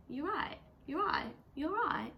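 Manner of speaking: imitated British "you all right"; rising-falling mock British greeting; British accent attempt. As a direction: put on a casual British lilt. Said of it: "I'm not saying with accent".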